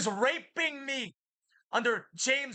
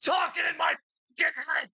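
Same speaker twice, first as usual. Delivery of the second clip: furious shout; 6 semitones higher, faster than usual. Real, not acted. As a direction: yell it at him. Threatening the voice in head.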